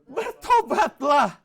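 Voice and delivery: slow, loud, drawn-out call to repent; loud reading. Shown as a demonstration. Pastor reading the verse aloud to the church, slow and loud. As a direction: proclaim the word slowly and loudly. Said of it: "Baca yang keras".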